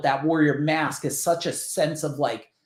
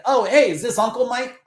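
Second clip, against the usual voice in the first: higher, chirpy caller; retold phone greeting; 6 semitones higher, 3 dB louder than usual. Nephew calling back unknown uncle, retold chirpy greeting. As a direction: pitch it up politely, as if on a call.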